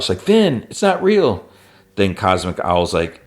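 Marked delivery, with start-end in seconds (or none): 0.2-1.4 high, slow call across the room; slow, high pleading call. Retold or imitated. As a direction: call out to reach him. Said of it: "she calls out".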